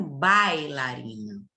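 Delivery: bailarina slow and low, the I weak; slow model word. Shown as a demonstration. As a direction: say bailarina slowly to show the weak I. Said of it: "O I, fraquinho". (bailarina lenta e grave)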